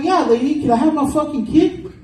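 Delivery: his own voice pushed way up; high-pitched self impression. Comic retelling his school pickup, squeaky high self voice. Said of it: "It's like three octaves higher".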